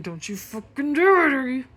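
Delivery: high, loud threat to the cat; stern warning. Retold or imitated.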